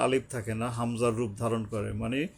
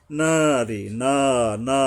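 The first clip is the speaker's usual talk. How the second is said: louder নারী with a held first aa; one-alif elongation; 6 dB louder, much slower than usual. Shown as a demonstration. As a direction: stretch each না one beat. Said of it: "এক আলিফ টানতে হবে". (না এক আলিফ টেনে)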